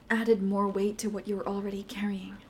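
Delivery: soft unvoiced whisper; remorseful whisper. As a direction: confess it under your breath. Quiet remorse after yelling.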